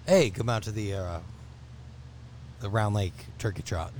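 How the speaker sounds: a weak try at a radio announcer; lame radio voice. Pretend. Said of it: "a really lame, uh, radio voice attempt".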